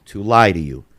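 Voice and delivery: measured end to quoted advice; solemn proverb. Retold or imitated. Older man advising a teenager about liars, deliberate and weighty. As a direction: land the saying deliberately.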